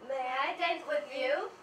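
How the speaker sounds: slow, courtly invitation; prince asking to dance. Acted. Prince bowing to Cinderella, slow and courtly. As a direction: ask for the dance slowly and politely.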